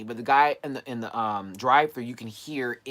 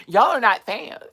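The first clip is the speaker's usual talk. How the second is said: amused outburst; 10 semitones higher, 9 dB louder, slower than usual. Real, not acted. Teasing viewers, amused outburst.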